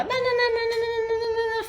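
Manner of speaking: put-on high, slow whiny child's nananana; child whining. Mother imitating her daughter's whiny nananana. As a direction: mimic a toddler whining for attention.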